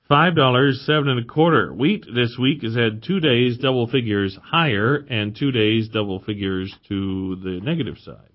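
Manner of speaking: brisk radio market report; reading market prices. Acted. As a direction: read the grain prices like a farm broadcaster. Market prices read on air.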